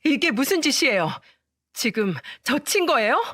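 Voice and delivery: mock outraged shout. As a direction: shout at the mother-in-law who slapped her. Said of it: "시모를 보며 소리쳤어요". (시어머니에게 억울하게 소리치는 목소리)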